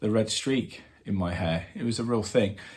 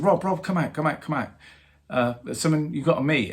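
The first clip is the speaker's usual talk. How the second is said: mock urgent calling, voice up high; calling Rob over eagerly; 6 semitones higher than usual. Bass player calling Rob over to meet someone, urgent call.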